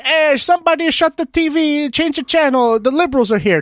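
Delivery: high-pitched imitation of a grumbling granddad; heckling grandfather. Grandfather announcing the liberals as they walk in, imitated heckling.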